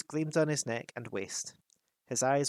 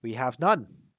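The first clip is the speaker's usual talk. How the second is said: Thorin; 8 dB louder, slower than usual. A narrator's reading. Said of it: "said Thorin".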